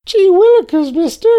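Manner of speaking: excited golly-gee exclamation; wholesome 1950s kid. Pretend. Host in squeaky kid voice.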